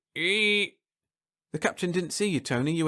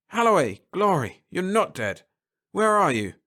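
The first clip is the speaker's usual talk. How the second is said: louder, relieved call; relieved captain; 4 semitones higher, 4 dB louder than usual. Acted. Captain relieved to hear Holloway, loud call. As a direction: shout out, glad he's alive.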